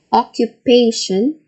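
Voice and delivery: "Occupation" stressed on "pa"; third-syllable stress. Shown as a demonstration. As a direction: say "Occupation" as oc-cu-PA-tion, ending on a rise. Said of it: "It is on the third syllable".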